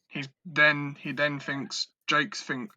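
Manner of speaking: tripping over his words; stumbling restarts mid-sentence; stuttering. Real, not acted. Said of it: "I'm fucking stuttering".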